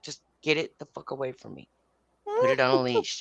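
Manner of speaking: low-volume, contained irritation; tight, held-back order; through gritted teeth. Retold or imitated. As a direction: re-enact a warning through clenched teeth. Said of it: "through the gritted through the teeth".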